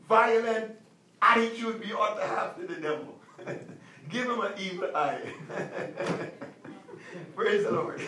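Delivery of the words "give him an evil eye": soft, low, breaking into laughter; laughing. Real, not acted. Pastor amused by the toddler story, soft giggling. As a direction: laugh it out while saying it. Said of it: "laughing at story".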